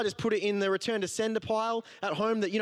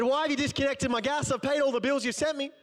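retold indignation; 7 semitones higher than usual. Angry call to gas company.

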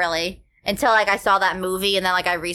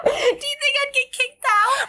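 very high, laughing shout. Real, not acted. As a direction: squeal it through laughter. Laughing excited question.

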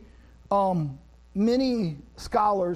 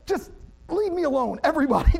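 frustrated outburst; 5 semitones higher, faster than usual. Retold or imitated. Wet and furious dad venting at everyone on the boat, exasperated. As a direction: snap at the whole family. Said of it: "It's like".

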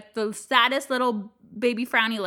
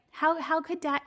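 put-on dramatic child; 5 semitones higher, 4 dB quieter than usual. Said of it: "he is very dramatic".

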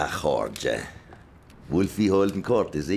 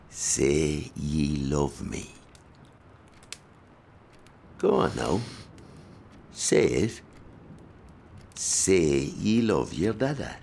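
slow menacing demand; 3 semitones lower, slower than usual. Acted. Father demanding affection.

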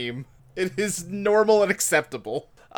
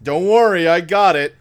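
louder mock-helpful sarcasm; sarcastic reassurance; 6 dB louder than usual. Wife hauling planks past lounging husband, sarcastic. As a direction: imitate a put-upon wife being sarcastic. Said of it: "she's sarcastic, is like".

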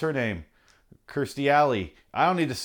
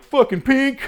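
squealed very high and loud; high, loud mock gasp of tabloid delight; gushing reporter; 14 semitones higher, 8 dB louder, slower than usual. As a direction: shriek it like a giddy gossip. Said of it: "And they're like".

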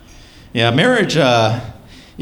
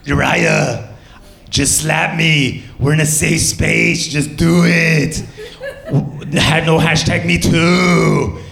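hammed-up, drawn-out German accent, pitched higher; mangled German accent, part Arnold Schwarzenegger; mock German accent; 5 semitones higher, much slower than usual. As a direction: demand it slowly in a bad German accent. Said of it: "in her German voice".

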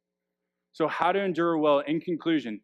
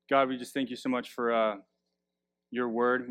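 closing prayer. Real, not acted.

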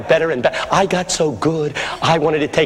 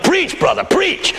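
high-pitched urging call; imitated congregant yell; 11 semitones higher, slower than usual. Congregant to old pastor, imitated yell. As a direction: cheer the preacher on from the pews. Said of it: "Somebody yelled".

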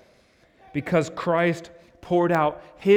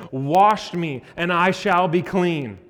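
louder pleading cry; crying out to God; 4 semitones higher, 6 dB louder than usual. Acted. Preacher voicing David crying out to God, pleading. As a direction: beg to be made clean.

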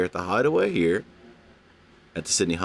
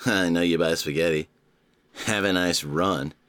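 low creepy imitation of the ad line; host mocking the watch ad, low and sinister; 5 semitones lower than usual. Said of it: "that guy does sound creepy".

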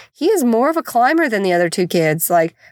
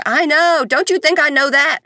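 retold exasperation; 6 semitones higher than usual. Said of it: "I'm like".

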